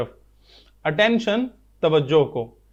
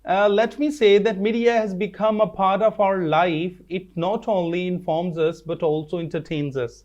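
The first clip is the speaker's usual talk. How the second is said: very slow, word by word reading aloud; slow dictation reading; much slower than usual. Shown as a demonstration. Teacher reading textbook line to students, slow and careful. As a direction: read it out slowly so the class can follow.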